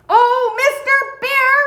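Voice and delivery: high, loud call up to the bear; shouting. Acted. Mona shouting up to the bear who ignores her, high and loud. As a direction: shout up to get his attention. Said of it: "she shouted".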